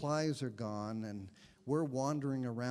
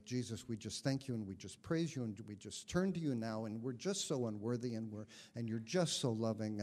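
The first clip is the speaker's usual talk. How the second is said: gently mock the friend's heartfelt praying style; a light take on a just-so-humble free prayer; mimicking Al's prayer; 3 semitones lower, faster than usual. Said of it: "he'd pray".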